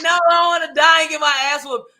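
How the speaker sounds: high, mock-panicked protest; afraid of a whooping. Teller re-enacts fearing dad's punishment, high mock panic. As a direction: plead it high-pitched, comically scared. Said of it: "I was like".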